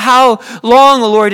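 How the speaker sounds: crying out. Acted. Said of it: "We cry out".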